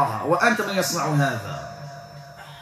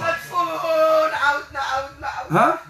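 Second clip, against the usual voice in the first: crying high voice; 9 semitones higher than usual. Real, not acted. Possessed woman answering during exorcism.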